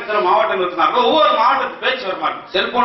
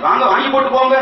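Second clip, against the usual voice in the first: Coimbatore dialect; 5 semitones higher than usual. Retold or imitated. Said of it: "Coimbatore பக்கம் போனா அது ஒரு மாதிரி".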